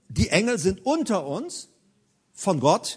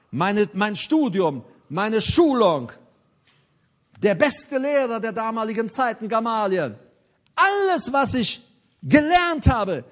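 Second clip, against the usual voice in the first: emphatic listing; 3 semitones higher than usual. Acted. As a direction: preach it as Paul's weighty résumé. Preacher acts out Paul's proud list.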